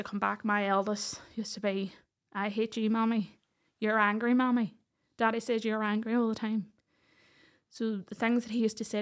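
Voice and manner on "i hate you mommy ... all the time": loud, mildly mimicked angry child; retold child's accusation. Eldest back from dad's to mum, imitated angry accusation. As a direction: push it out like a child accusing a parent.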